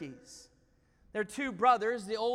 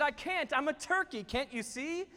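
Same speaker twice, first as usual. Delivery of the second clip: put-on higher, insistent young eagle; protesting; 5 semitones higher, 4 dB louder than usual. Eaglet tells the owl he cannot fly, protesting. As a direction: plead the case item by item.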